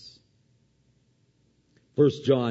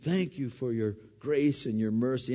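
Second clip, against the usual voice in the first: humble prayer; 3 semitones higher than usual. Pretend. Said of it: "I come out going".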